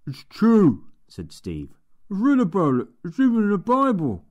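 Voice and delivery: put-on a keen young lad explaining his book; Steve's voice. A narrator's reading. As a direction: play the eager, slightly dim assistant. Steve's voice again.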